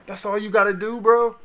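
high, loud disbelieving yell; loud outraged bro; exasperated shout. Real, not acted. Exasperated outburst at news.

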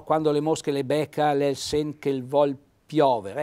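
reciting a dialect proverb; Trentino dialect. Shown as a demonstration. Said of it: "queste massime".

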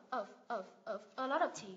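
"ở" repeated with a v ending, then in the phrase; correct final v. Shown as a demonstration. Teacher drilling of in a phrase, correct final v. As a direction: model "ở" closing on v, evenly repeated. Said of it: "Thì mình đọc là ở".

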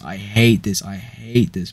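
loud, fed-up shout; furious shout. Real, not acted. Reader hates reading these jokes, furious shout. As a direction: scream your hatred of it. Venting about the joke book.

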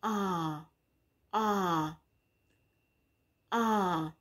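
"Ah" as an open short vowel repeated; short o sound. Shown as a demonstration. Teacher drilling the sound for young learners, open vowel. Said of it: "That's the short sound of letter O".

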